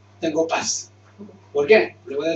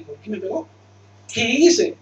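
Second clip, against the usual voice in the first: put-on confused child; 4 semitones higher, 4 dB louder than usual. Voicing a confused hit child.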